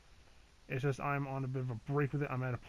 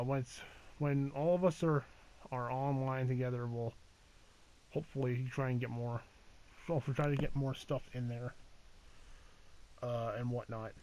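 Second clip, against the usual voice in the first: halting, restarting the words; stammering. Real, not acted. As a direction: stumble and restart mid-sentence. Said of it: "it sounds like I'm stammering a bit".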